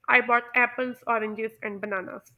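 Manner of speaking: "I bought apples, oranges and bananas" as a continuing list; non-final list intonation. Shown as a demonstration. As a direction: keep each item in "apples, oranges and bananas" hanging, slowing through the list. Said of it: "non final intonation".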